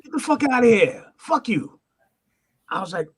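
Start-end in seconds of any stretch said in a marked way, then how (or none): 0.0-1.8 mock-angry, raised-voice dismissal; retold irritated rebuff; angry brush-off. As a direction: act out a hostile brush-off, pitched up. Retold hostile brush-off from idol.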